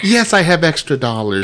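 high, laughing through it; laughing mock yes. Husband mimics himself laughing. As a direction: chuckle through the eager yes.

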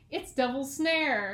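slow British accent, R dropped on "Snare"; lightly put-on British accent, drawing out the phrase. Shown as a demonstration. Quoting Hermione to get into the accent, British accent. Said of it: "what I think of when I think of a British accent".

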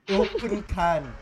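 slow, drawn-out non-American accent; heavy put-on accent. Shown as a demonstration. Showing friends a heavy accent before the American one, put-on accent. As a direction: stretch it out in a foreign accent. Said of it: "if I say it in an American accent".

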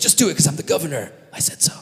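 quick mock bossiness, dropping to a mutter; hurried, lightly acted dismissal; impatient order. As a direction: rattle it off, pulling rank. Joseph brushes off servants' doubts.

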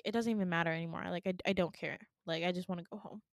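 low, soft, defeated delivery; resigned. Retold or imitated. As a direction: give up, dropping pitch and volume. Retold giving up to doctor.

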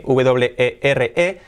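slow letter-by-letter spelling of W E R E; spelled out. Shown as a demonstration. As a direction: spell "W E R E" in Spanish, one letter at a time. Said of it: "no se pronuncia así". (deletreado despacio, letra por letra)

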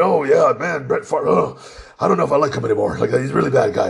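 imitating girls who talk like dudes; lightly put-on manly football-fan voice. Friends discussing Brett Favre, mock manly voice. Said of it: "and they sound like this".

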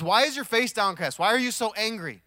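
preacher voicing God's pointed challenge; God questioning Cain. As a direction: press the question as God would. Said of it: "And God says".

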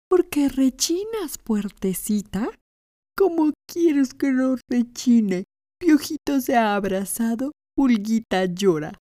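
sing-song little household objects; broom and door voices. Acted.

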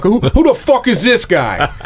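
a light, laughing take on McGregor; McGregor impression. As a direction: toss off McGregor's famous line, half laughing. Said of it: "That's my favorite line of his".

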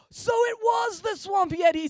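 put-on high, loud, slow wide-eyed boy; awed realization. A narrator's reading. Parker guesses the swamp yeti, high and loud. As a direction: breathe it out in awe. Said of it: "said Parker".

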